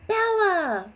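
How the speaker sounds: loud high joyful call; delighted high exclamation; happy exclaim. A narrator's reading. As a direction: cry her name with joy. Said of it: "Wanda exclaimed happily".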